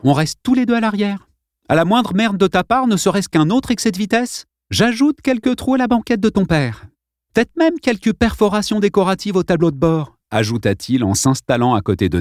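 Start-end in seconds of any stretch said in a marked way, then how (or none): 0.0-10.2 cool threat. A narrator's reading. Boy threatens bully calmly.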